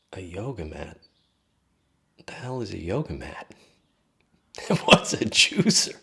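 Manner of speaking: disbelief breaking into a laugh, high and loud; baffled, laughing at the absurdity; incredulous laugh. Retold or imitated. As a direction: laugh out the last question. Incredulous thought ending in laughter.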